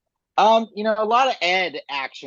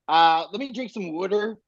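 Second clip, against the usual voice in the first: lightly imitated Philly accent on "water"; 3 semitones higher than usual. Co-host showing off the funny local speech, playful Philly accent. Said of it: "it's just such a funny accent".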